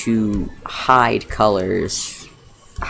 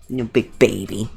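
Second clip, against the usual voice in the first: slow cooing at the dog. Real, not acted. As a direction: coo it slowly at the dog.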